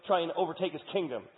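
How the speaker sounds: high, loud panicked cry; frightened man expecting execution; panicked Mephibosheth. Acted. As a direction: voice him terrified of the new king. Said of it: "And Mephibosheth's like".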